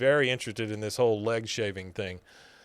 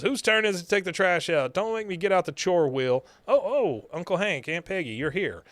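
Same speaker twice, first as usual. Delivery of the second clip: Luann voice; 5 semitones higher than usual. Retold or imitated. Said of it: "and she goes".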